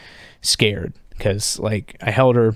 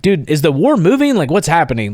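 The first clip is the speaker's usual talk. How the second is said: higher, exasperated questioning; retold upset; 5 semitones higher, 4 dB louder than usual. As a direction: act out fed-up confusion at the military. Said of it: "I started getting upset".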